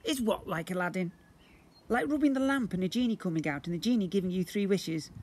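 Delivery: booming slime creature. Acted. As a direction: play the magical blob, grand and eager. Slime character voice.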